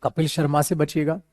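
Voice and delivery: usual speaking voice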